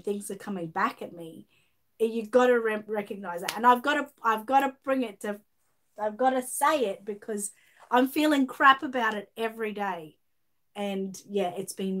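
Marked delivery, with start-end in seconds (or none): 2.0-10.2 louder, pressing each point home, fed up; letting real frustration push through; frustrated. Real, not acted. Defending herself to a viewer who keeps accusing her, frustrated and louder. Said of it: "I'm getting a bit frustrated here".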